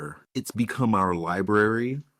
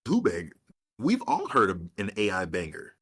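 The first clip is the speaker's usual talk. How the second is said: ordinary talk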